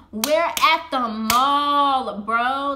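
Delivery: loud, drawn-out exclamation of disbelief; exclaiming in disbelief. Real, not acted. Storyteller appalled at a mall proposal, exclaiming in disbelief. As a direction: stretch it out loudly, appalled at the setting. Repeats absurd proposal location.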